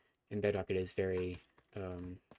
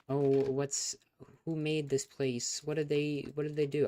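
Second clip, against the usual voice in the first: higher, louder, mock curious asker; mock viewer question; 6 semitones higher, 4 dB louder, slower than usual. Streamer mimics nosy viewers' question, mock curious. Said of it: "if you're gonna ask me, like".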